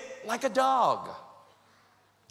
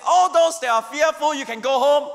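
commanding call; 4 semitones higher, 5 dB louder than usual. Acted. God's command voiced in sermon.

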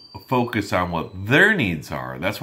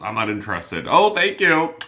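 dismissive brush-off; 3 semitones higher, 4 dB louder than usual. Retold or imitated. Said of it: "not just".

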